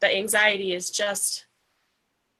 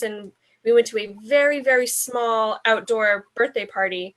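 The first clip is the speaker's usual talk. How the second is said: congested. Real, not acted. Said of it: "I don't know if you can hear it in my voice".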